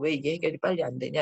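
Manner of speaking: normal talking voice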